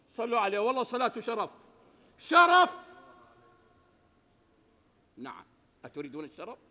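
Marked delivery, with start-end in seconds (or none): 0.1-0.6 urgent call. Acted. Preacher urging blessings, louder repeat. 0.6-2.9 building to a high loud cry on شرف; fervent shout. Acted. Preacher rousing the congregation, building to a fervent shout.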